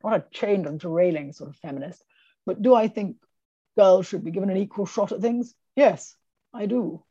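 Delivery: lightly imitated posh Scottish lady; a hint of upper-class Scottish accent, measured; posh Scottish accent, unhurried and firm. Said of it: "speaks like this ... Like this".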